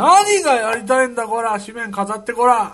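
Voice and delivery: loud mock wrestler shout; 長州力のモノマネ. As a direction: bark it like an angry pro wrestler. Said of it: "長州力。". (長州力風に怒鳴るモノマネ)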